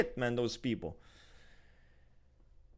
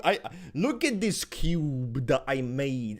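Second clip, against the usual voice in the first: smug mock voice; 2 semitones lower, slower than usual. Mocking Ibrahim showing cube.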